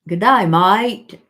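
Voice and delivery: loud, drawn-out Aussie greeting; Aussie accent. Acted. Playfully echoing Dora's greeting for the viewers, broad Aussie accent. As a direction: ham up the Australian vowels, slow and loud. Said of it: "You love my Aussie accent?".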